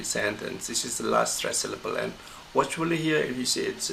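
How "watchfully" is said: "watchfully" lifted high as the key word; loudest stressed word. Shown as a demonstration. Teacher pointing out the sentence's most important word, strongly stressed "watchfully". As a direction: stress "watchfully" with raised pitch. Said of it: "it's the loudest".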